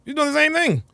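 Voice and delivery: high, laughing disbelief. Real, not acted.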